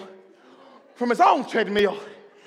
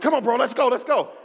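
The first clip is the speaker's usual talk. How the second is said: gym bro; 5 semitones higher, 4 dB louder, faster than usual. Retold or imitated. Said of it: "He's like".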